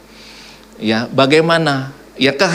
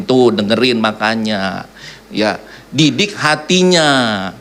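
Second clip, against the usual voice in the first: wife lecturing; 5 semitones lower, slower than usual. Retold or imitated. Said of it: "Lalu saya dinasihatin".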